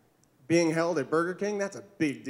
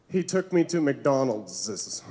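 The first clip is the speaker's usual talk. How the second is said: put-on girlfriend's embarrassed line; 4 semitones lower, slower than usual. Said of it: "She said".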